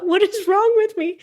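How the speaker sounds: very high, on the edge of laughter; amused self-reproach. Real, not acted. Speaker scolding self for botching a name, high and giggly. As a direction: squeal it at yourself, about to crack up. Mortified, amused at own slip.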